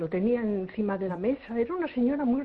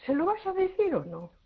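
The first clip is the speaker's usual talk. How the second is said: anxious question; 10 semitones higher than usual. Retold or imitated. Anxious question after the reading.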